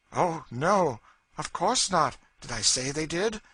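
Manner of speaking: mock innocence, a smile in the voice; a touch of cold scorn; chilling derision. A narrator's reading. Cassie mocks the frightened Legree with chilling derision. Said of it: "with a smile of chilling derision".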